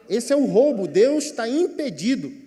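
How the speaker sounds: loud, high preaching cry; impassioned preaching. Real, not acted. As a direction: drive the point home at full force. Preacher rises to forceful climax.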